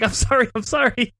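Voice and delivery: high, pleading repeat; mock pleading apology. Babysitter apologizing to the mom, mock pleading. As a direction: plead it in comic panic.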